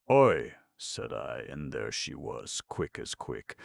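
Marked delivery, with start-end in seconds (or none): 0.1-0.5 high, loud call; loud hail. Acted. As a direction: call out sharply. Calling attention.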